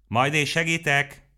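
high, slow, tiny chiming voice; a tiny fairy voice offering help; tinkling little voice. A narrator's reading. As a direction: sing it out like a little bell. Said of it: "csilingelte valaki".

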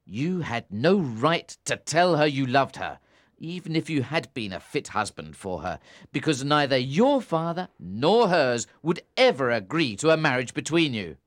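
angry tirade. A narrator's reading. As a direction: berate him harshly. Tom berating Philip.

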